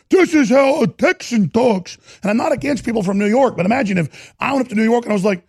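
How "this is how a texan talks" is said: high, slow mock Texan accent; badly faked Texan twang, drawn out and pitched up; O'Rourke, fake Texan accent. Host mocking an easterner trying Texan, fake Texan accent. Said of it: "Connecticut or New York accent that he's trying to".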